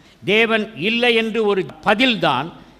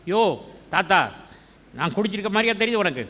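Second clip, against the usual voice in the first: sassy comeback; 3 semitones higher, faster than usual. Pretend. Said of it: "நான் அன்னாளா இருந்தா".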